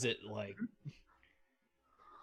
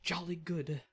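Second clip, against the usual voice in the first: high, slow plummy toff; drawn-out upper-class cheer; posh voice; 7 semitones higher than usual. Acted. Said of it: "my most posh sounding voice".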